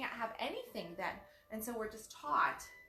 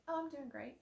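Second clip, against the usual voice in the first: flat fake fine; 5 semitones higher than usual. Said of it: "does that sound like I'm doing great?".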